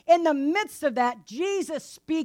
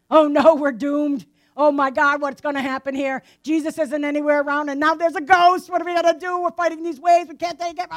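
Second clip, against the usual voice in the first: louder mock alarm, voice rising toward the end; mock panic; 5 dB louder than usual. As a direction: play the panicking disciples in the storm. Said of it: "And we panic".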